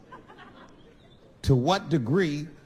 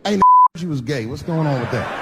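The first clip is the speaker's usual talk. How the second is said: loud, blunt blurt; blurted question; 7 dB louder than usual. Retold or imitated. Teasing his friend on the phone, loud blurt. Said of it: "I was just like".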